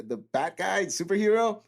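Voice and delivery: tentative guess, rising high; unsure recruit. Retold or imitated. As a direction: offer a nervous guess to a superior.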